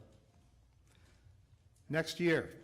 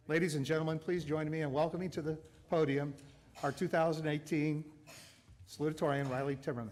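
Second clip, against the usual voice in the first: podium speech. Acted. Introducing speaker at podium.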